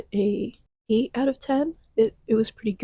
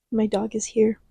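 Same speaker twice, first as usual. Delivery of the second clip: ordinary talk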